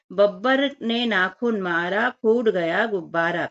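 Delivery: slow, sing-song rhyme reading; rhyme recitation. Shown as a demonstration. Teacher reciting a fun rhyme to children, slow and sing-song. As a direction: recite the rhyme slowly so the children can follow. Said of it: "बहुत ही मजा आता है बोलने में".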